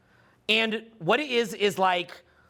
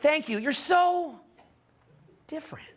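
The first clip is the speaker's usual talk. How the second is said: mock girlfriend compliment; 8 semitones higher than usual. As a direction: stretch it out high and teasing. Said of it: "It's like".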